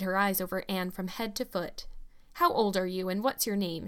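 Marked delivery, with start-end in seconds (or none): 2.3-3.9 curt, blunt questioning; a sharp woman sizing up a child; demanding. Acted. Mrs Blewett questioning the orphan, curtly demanding. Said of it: "she demanded".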